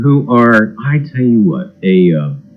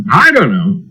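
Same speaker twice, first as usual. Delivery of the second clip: laughing. Real, not acted. Laughing off the tech glitch.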